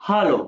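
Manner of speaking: हेलो said as alo, open a; German hallo. Shown as a demonstration. Teacher models हेलो as German alo. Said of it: "it is not hello".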